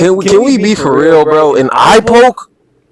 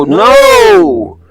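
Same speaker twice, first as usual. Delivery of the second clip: incredulous shout; exasperated. Real, not acted. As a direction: shut it down. Exasperated rebuttal.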